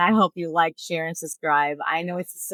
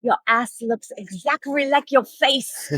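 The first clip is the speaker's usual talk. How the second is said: put-on higher, slow caricatured Asian accent; mock Asian accent; 7 semitones higher, 4 dB louder, slower than usual. Doctor explains the disease to patient, mock Asian accent. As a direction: deliver the punchline slowly in a mock Asian accent. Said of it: "little Asian man, you know".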